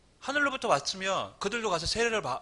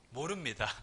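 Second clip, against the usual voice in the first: soft, lower, falling 모릅니다 shrugged off; quiet evasive denial; 4 semitones lower, 6 dB quieter than usual. Shown as a demonstration. Preacher acting out the leaders' dodge, quiet denial. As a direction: mutter 모릅니다 evasively under your breath. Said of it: "어쩌면 그게 가장 현명한 대답일 수도".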